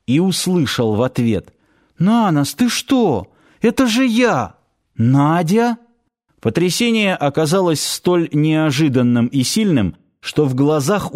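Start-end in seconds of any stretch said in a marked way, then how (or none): 2.0-5.8 put-on girl calling out. Girl calls out to Nanos.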